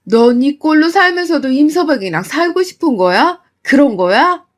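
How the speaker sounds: mother scolding in disbelief; angry scolding. Acted. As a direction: scold her daughter sharply.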